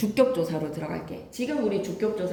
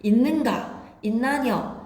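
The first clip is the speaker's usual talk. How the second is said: Gyeongsang dialect; 3 semitones higher, 3 dB louder, slower than usual. Shown as a demonstration. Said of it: "다 아로 물어봅니다".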